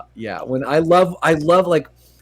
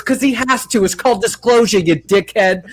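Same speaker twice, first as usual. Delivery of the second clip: higher, mock schooling tone; quoting Mona Lisa; 5 semitones higher than usual. Mona Lisa schooling Vinny, mild mock scolding. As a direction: school him in a lightly voiced Mona Lisa. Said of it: "And he goes".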